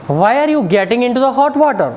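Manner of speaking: slow, deliberate example sentence. Shown as a demonstration. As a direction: say it slowly so students catch it. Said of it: "English में इसको बोलती है". (उदाहरण धीरे-धीरे बोलते हुए)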